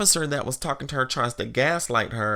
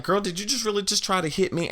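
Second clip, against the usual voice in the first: imitating indignant woman; 6 semitones higher, faster than usual. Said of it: "This woman is like".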